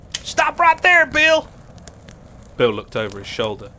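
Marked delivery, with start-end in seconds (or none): 0.1-1.5 high, loud order; commanding shout. Acted. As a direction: stop him dead in his tracks. Benny confronts Bill.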